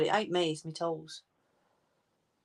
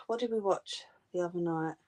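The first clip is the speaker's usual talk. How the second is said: whisper; 6 dB quieter than usual. Real, not acted. Aside to herself.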